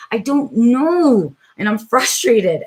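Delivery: audibly fed up, dragging it out; frustrated. Real, not acted. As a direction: let real frustration slow the words. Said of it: "And you can hear that in my voice, how frustrated I am".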